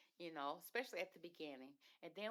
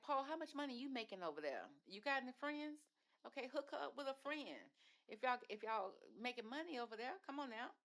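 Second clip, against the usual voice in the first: playful mock demand; 7 semitones higher than usual. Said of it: "And it's like".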